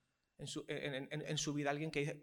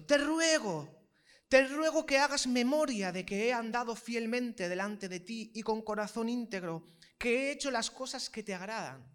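slow, high, earnest pleading to the Lord; humble solemn plea; 4 semitones higher, 5 dB louder than usual. Acted. Hezekiah praying to God, slow humble plea. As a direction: beg reverently, drawing each word out. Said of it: "le habla con una actitud humilde, reverente, solemne".

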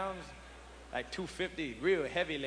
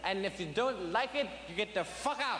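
put-on drunk father; 5 semitones higher than usual. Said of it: "stand up ... and say".

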